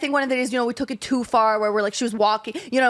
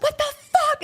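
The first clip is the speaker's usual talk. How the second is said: much higher, shrill imitated outburst of a crying sister; sister freaking out. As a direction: play the furious, sobbing sister, pitched way up. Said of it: "she's freaking out at me".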